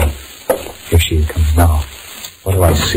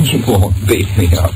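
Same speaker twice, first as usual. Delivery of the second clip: laughing; 4 semitones higher than usual. Acted. Laughs off the threat.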